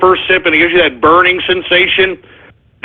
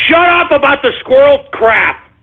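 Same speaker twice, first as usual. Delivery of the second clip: raised-pitch irritated outburst; exasperated scolding; 5 semitones higher than usual. Real, not acted. Host fed up with squirrel names, exasperated scolding. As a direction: tell them off, pitched up and fed up.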